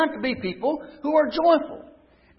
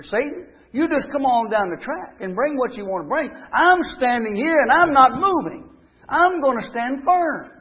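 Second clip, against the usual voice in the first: defiant stand; 3 semitones higher, 3 dB louder than usual. Acted. Preacher voicing defiant stand.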